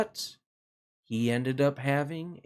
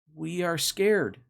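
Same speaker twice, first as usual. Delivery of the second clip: scared little fish; 4 semitones higher, slower than usual. Acted. Fish voiced in children's story.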